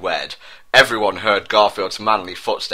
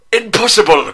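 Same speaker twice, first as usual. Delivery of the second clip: hammed-up shocked cry, much higher and louder; 11 semitones higher, 6 dB louder than usual. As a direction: gasp it in disbelief. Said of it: "cried out Prince William with shock".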